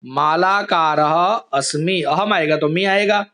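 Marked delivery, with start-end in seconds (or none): 0.0-2.0 slow dictation. Shown as a demonstration. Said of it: "देखो मैं word यहाँ पर बता रहा हूं".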